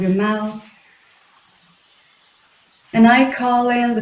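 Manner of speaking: unhurried meditation guidance with long pauses; guided meditation. Acted. Guiding listeners to feel the ground beneath their feet, guided meditation. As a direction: guide them gently inward, leaving space between phrases.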